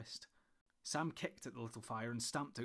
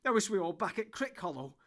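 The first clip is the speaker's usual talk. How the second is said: much louder, high outburst of despair; wild cry; 7 semitones higher, 10 dB louder than usual. A narrator's reading. Frodo cursing the dreadful forest, crying wildly. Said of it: "cried Frodo wildly".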